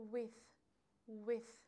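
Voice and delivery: with said apart, ending on a "th". Shown as a demonstration. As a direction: model with as a separate, repeated example word.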